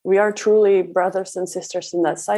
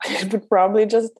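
amused laughing admission; 2 semitones higher than usual. Real, not acted. Joking about her own reaction.

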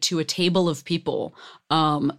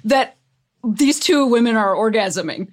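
baffled; 7 semitones higher than usual. Retold or imitated. Acting out a puzzled viewer.

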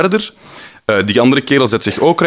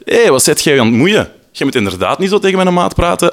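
angry retort; 7 semitones higher than usual. Retold or imitated. Friend of harasser confronts teller.

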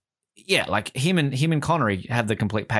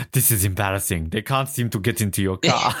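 lightly voiced German henchman; stereotypical German accent; 4 semitones lower than usual. Quoting the henchman to a co-host, mock German accent. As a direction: do a comic German movie villain. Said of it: "most stereotypical German accent".

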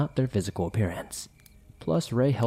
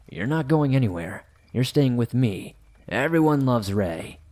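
creepy teasing captor; 3 semitones higher than usual. Retold or imitated. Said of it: "laughing and saying".

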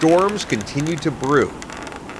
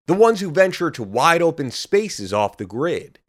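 ad read. Acted. Sponsor ad read in podcast.

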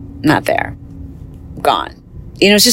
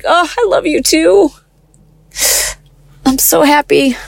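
much higher, retold happy gush; overjoyed reply; 10 semitones higher than usual. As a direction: relive the joy of hearing from him. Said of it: "I'm like".

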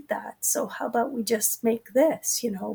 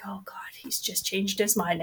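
hushed whisper to herself; a soft aside whispered in dismay; 8 dB quieter than usual. Retold or imitated. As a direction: whisper it, dismayed he changed plans. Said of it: "And I'm like".

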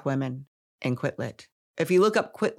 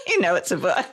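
nervous laugh; 10 semitones higher, faster than usual. Real, not acted. Laughing at own sales trick.

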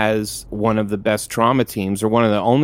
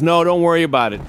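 higher, offhand reassurance; dismissive fireman; 7 semitones higher, faster than usual. Retold or imitated. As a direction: wave off the worry like a careless fireman. Fireman brushes off his worry.

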